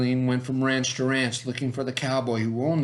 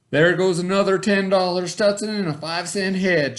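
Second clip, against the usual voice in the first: complaining; 6 semitones higher, 4 dB louder than usual. Acted. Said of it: "she complained".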